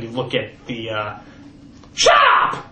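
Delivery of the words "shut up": very high yelled outburst; sudden snap. Acted. Host snapping at the audience, sudden high yell. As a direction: bark it out of nowhere.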